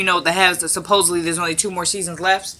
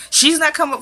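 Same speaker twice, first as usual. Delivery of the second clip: pitched way up, mocking her refusal; mock high Hannah; 9 semitones higher than usual. Repeats Hannah's line in mockery.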